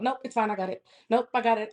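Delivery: curt mock brush-off; short and abrasive. Friend refusing to talk, imitated short and abrasive. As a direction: imitate a friend shutting down questions. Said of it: "just abrasive".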